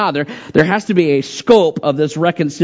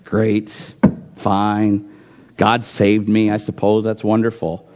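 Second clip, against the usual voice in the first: a hint of a half-hearted churchgoer; bored; 6 semitones lower than usual. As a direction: shrug it off like it means nothing. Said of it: "how many times do we sit there and say".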